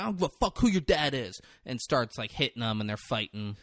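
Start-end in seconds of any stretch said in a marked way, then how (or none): 0.0-1.4 high, mock-defiant retort; acted angry challenge; imitated anger. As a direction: play a hot-headed shove-and-talk. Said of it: "Mikey gets angry".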